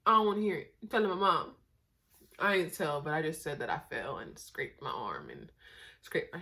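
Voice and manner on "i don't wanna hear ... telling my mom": louder, defiant refusal; mock stubborn tattletale; defiant kid.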